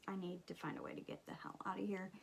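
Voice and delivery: put-on fast, hushed whisper of a scared girl; panicked whisper. Scared girl whispering to herself in the queue. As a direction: whisper it like you're trying to escape. Retelling panic in the haunted line.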